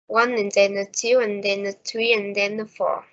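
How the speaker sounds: numbers on the beat, "and then a" squeezed between; unstressed "and then a" packed between beats; even stress timing. Shown as a demonstration. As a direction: punch "One", "two", "three", "four" at even intervals. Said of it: "time between stressed words is always the same".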